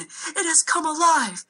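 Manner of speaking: high, slow panicked scream. A narrator's reading. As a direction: servant screams that the dragon lives. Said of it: "I heard the servant screaming".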